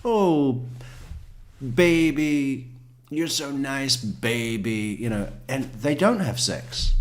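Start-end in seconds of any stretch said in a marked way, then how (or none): 0.0-5.0 put-on higher, cooing girlfriend voice; sweet nothings. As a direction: sweet-talk him like a paid girlfriend. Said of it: "she'll be saying things to him like".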